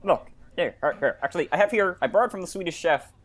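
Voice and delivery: Kermit the Frog impression; earnest Muppet frog voice. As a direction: talk like the hesitant talking frog puppet.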